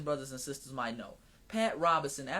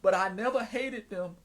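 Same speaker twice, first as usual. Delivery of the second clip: higher, louder mocking John Lewis voice; mock Christian Negro; 4 semitones higher, 5 dB louder than usual. Mocking John Lewis's forgiveness to the audience, mock-pious. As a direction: mimic a forgiving churchgoer, pitched up and loud. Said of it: "That's a Christian Negro talking like that".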